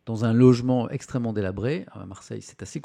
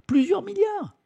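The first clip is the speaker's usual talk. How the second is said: "plusieurs milliards" jumps far higher, astonished; amazed emphasis; slower than usual. Shown as a demonstration. Streamer repeats the sum of money in high-pitched disbelief.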